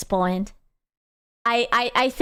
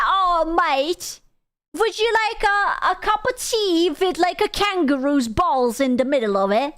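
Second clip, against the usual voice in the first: mock Australian; 5 semitones higher than usual. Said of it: "Fucking Australian?".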